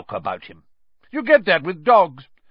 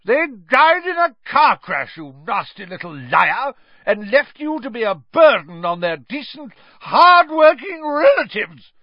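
very high, loud furious scream; Aunt Marge screaming; 12 semitones higher, 8 dB louder than usual. A narrator's reading. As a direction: scream at him, swelling with fury. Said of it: "screamed Aunt Marge".

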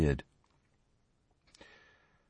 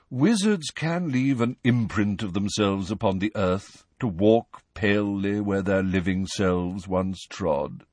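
miserably. Acted. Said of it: "said Nick miserably".

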